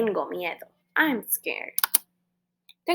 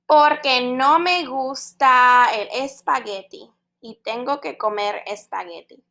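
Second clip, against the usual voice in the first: unicorn complaint; 4 dB louder than usual. Acted. Unicorn complains about spaghetti.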